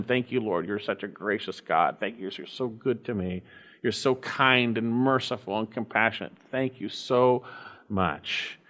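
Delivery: soft, intimate prayer to God; hushed prayer. Shown as a demonstration. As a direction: pray it quietly, as if alone with the Lord. Preacher models a personal prayer.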